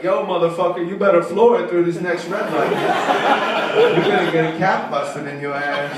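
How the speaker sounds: loud street-voice GPS warning; hammed-up tough-neighbourhood navigator. GPS for Homewood warns driver, loud and tough. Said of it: "the type of voice that's indicative of the neighborhood".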